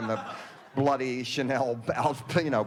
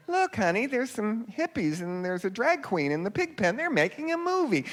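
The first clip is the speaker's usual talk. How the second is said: much higher, excited wife's voice; gossiping farm wife; 9 semitones higher than usual. Retold or imitated. Farm wife tells her husband about the hippies, high and excited. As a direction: pitch it way up like a startled farm wife. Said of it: "The farm wife's like".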